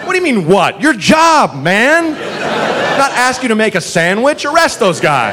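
exasperated retort. Retold or imitated.

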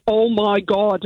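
put-on light Northern Irish Derry accent; "Oh my God" in a thick Derry accent. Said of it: "in a really thick Derry accent".

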